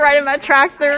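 amused mock-Southern accent. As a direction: play along in a Southern accent. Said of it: "we chose Southern accents".

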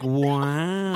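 mock-awed, stretched wow; insincere wow. Coworker mimics the singer's go-to reaction, mock-awed. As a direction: imitate an overdone wow. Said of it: "I feel like you're so full of shit".

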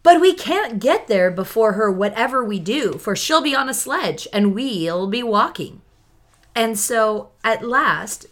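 lively read-aloud narration; story reading. Acted. Reads book passage aloud.

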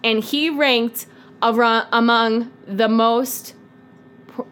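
slow, measured, spaced-out delivery; put-on presenter persona. Presenting a suspect to the co-host, slow put-on persona. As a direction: present each suspect with mock gravity, halting. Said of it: "Why are you talking like that?".

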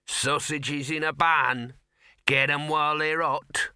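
slow, drawn-out street vendor's cry; bellowing. A narrator's reading. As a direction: call your wares out, stretching every word. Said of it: "bellowed a voice by his ear".

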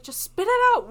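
losing patience with her crying mom; impatient outburst. Retold or imitated. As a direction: blurt it out impatiently. Impatient retort.

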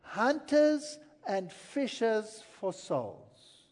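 drawn out for emphasis; slow and weighty. Acted. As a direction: stretch each word out. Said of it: "He wants you to be".

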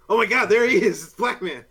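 mock panicked criminal. Criminals spotting Batman.

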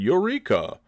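high excited "Eureka!"; excited exclaim. Acted. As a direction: burst out with delight. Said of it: "Winthrop Vaginal Belch said".

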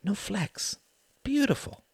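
hushed, entranced whisper. A narrator's reading. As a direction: marvel under your breath at the baby. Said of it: "he whispered".

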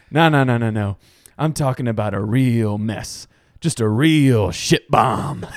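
slow, drawn-out mock insistence; imitated movie jock. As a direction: stretch out the key words as the character. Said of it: "And then he goes".

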